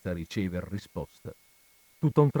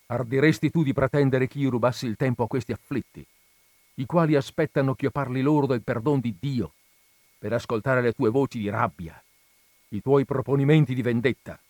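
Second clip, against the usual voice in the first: severe; 3 semitones higher than usual. Acted. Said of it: "con voce non meno severa".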